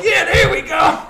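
high-pitched whoop, imitating excited girls; mock cheering. Little gang of girls squeezed into the car, mock cheering.

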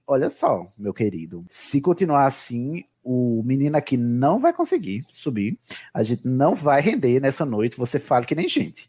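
low, measured reprimand; retold stern telling-off. Telling off a baby-talking partner, low mock-stern voice. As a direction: lay down the law to a lover, voice kept low. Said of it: "Eu falei assim".

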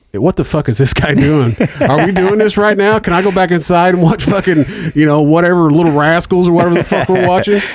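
put-on a bored smart-ass kid begging to go back inside; annoyed kid. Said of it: "my little one just turns and looks at me like".

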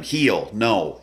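firm dog command with inflection; firm verbal correction. Shown as a demonstration. Trainer adding a verbal correction on heel, firm inflection. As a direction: put weight on each short command word. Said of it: "and giving the voice inflection".

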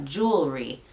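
"Jewelry" with a slightly stretched JOO, then ree; low, careful "Jewelry", long first syllable; lengthened first syllable. Shown as a demonstration. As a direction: hold the first syllable of "Jewelry" a touch longer. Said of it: "alargando un poquito esa primera sílaba".

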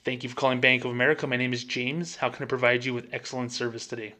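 quick scripted phone greeting; polished customer-service patter; fake bank voice. Shown as a demonstration. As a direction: answer the phone like a bank call-centre rep. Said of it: "That's not me".

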